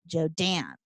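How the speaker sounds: "Jodan" with the weight on "dan"; stress on second syllable. Acted. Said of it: "emphasize the second syllable".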